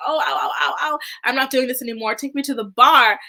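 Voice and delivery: hammed-up pained whine, ending loud; mock hurt complaint. Retelling a man who crashes his knee, mock hurt complaint.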